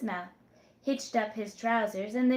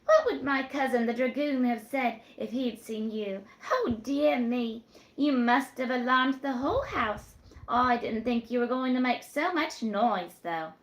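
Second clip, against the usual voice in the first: put-on higher, teasing young woman's voice; coy young woman; 3 semitones higher, 4 dB louder than usual.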